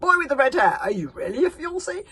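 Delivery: high, loud demanding voice; loud interrogation. Acted. Chief berserk loudly questioning the red-haired boy. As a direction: boom the question down at him.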